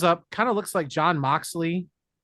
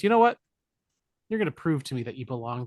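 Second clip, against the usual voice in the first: mock Satan; faster than usual. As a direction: snap back as Satan. Satan voiced in retelling.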